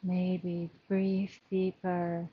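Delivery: measured meditation guidance with long pauses; guided breathing meditation. Acted. Yoga teacher settling the class into their breath, calm guided meditation. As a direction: lead the breathing calmly, leaving space between phrases.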